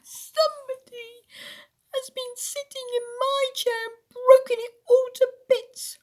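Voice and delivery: very high, loud, wailing little voice; squeaky sobbing bear. A narrator's reading. Baby Bear sobs over his broken chair, squeaky wail. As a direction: squeal it like a tearful tiny bear. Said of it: "sobbed Baby Bear in a squeaky little voice".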